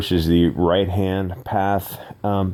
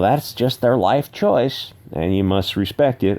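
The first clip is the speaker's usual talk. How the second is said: higher, mock-righteous voice; mocking quote; 5 semitones higher than usual. Host parodying people who defend parents' choices, mocking. Mocks defenders of what he criticizes.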